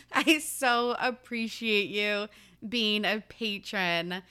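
put-on slow, halfway Australian accent for the patron; half-hearted Australian accent. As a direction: thank her in a tentative Australian accent. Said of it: "I should do this in an accent".

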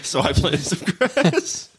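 slow, laughing Sean Connery British impression; hammed-up Sean Connery. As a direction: repeat it hamming the Connery British accent. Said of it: "Why'd you give him a British accent?".

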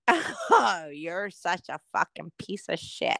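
low, soft retold put-down; mock family disapproval. Family scolding the speaker over the allergy, low mock disapproval. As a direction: imitate relatives, sighing and dropping low. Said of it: "my family's like".

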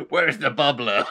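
lightly imitated Rhode Island accent; a hint of mock Rhode Island. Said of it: "I love your Rhode Island accent".

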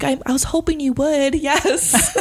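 breathless, giggly yes; lightly voiced smitten girl; swooning heroine. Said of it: "playing this out with the voices".

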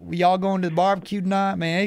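a casual mock Georgia good-ol'-boy accent; Georgia country accent. Telling the Boston guest how Georgia folks talk, light mock Georgia country accent. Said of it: "They talk slow".

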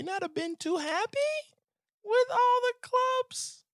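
very high, slow, sing-song voice; mocking the mayor of Scottsdale in a high singsong; mock falsetto. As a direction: float it up in a teasing falsetto.

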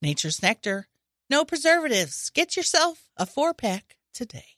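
upbeat hard sell ad read; commercial voice. Pretend. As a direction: pitch it like a radio ad. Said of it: "that commercial voice".

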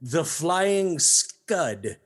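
slow, relishing each word; savoring the title. Shown as a demonstration. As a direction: roll it off the tongue slowly. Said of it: "such a pleasing sound as it rolls off the tongue".

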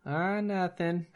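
slow, soft, high Minnesota reply; playing Marge, Minnesota accent. Co-host plays Marge in the Fargo bit, Minnesota accent. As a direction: answer back as Marge from Fargo.

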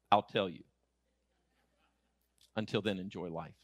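low, unhurried reassurance; calm fatherly assurance. Retold or imitated. Father answering his son's worry, low and calm. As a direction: settle it quietly, with a pause between.

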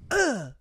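mock choked "ugh"; imitated choking grunt. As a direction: grunt like someone caught in a choke hold. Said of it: "another vampire that goes".

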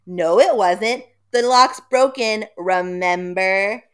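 loud, slow, know-it-all reply; sassy retort. Retold or imitated. Sister reminding brother the lock broke, sassy. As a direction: needle him, drawn out. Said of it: "sister retorts".

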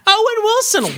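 high, excited star-struck exclamation; mock Owen Wilson gush; Owen Wilson impression. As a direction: cry out the name like a delighted fan.

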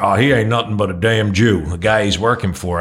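lightly put-on Southern accent. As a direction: quote a local in a hint of Southern accent. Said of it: "I'm gonna do my Southern accent".

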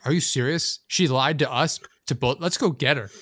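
acted-up indignation; mock outrage. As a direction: play shocked and rally the other guy. Acts out feigned outrage at her lie.

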